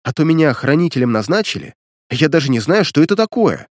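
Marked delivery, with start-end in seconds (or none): none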